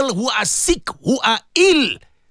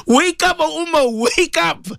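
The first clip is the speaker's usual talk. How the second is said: calling out; 6 semitones higher, slower than usual. Real, not acted. Calls the Ummah to wake.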